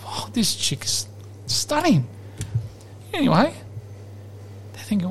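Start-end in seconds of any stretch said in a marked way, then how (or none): 0.1-2.1 whispered admiration. Retold or imitated. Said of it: "They're like".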